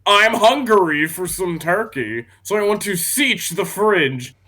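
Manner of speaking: ordinary talk, nothing marked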